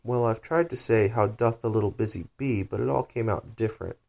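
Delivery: melancholy. Acted. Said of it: "in a very melancholy voice".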